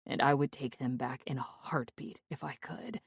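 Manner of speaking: breathy whispered regret; hushed whisper. A narrator's reading. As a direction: whisper it like a confession. Narrator's regretful inner thought.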